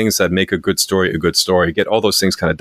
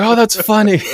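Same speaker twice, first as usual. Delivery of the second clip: very high, tickled imitation; high-pitched retold reaction; mock amusement; 3 dB louder than usual. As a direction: squeal it lightly as an amused buddy. Retelling friend's amused reaction.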